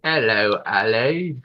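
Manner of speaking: put-on light British accent greeting; a hint of British accent. Greeting the chat's viewer in a mock British accent. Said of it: "that British accent was spot on".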